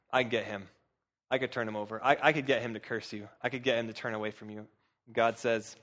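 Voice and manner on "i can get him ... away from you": low, quiet Satan, lightly acted; understated boast. Satan to God, sure he can turn Job, quiet low boast.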